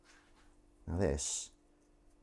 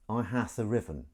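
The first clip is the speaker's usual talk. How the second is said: lightly put-on olde English; a hint of a medieval player; jokey olde-worlde phrasing; mock medieval speech; 3 semitones higher than usual. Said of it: "your kind of medieval speech".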